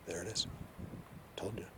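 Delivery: emotional. Real, not acted. Explaining to viewers they've been with him the whole time, emotional. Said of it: "As I was telling you, I get emotional".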